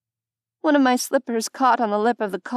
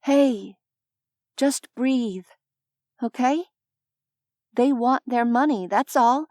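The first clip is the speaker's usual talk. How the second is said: reassuring; 4 semitones higher than usual. Acted. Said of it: "tried to shape my voice into something reassuring".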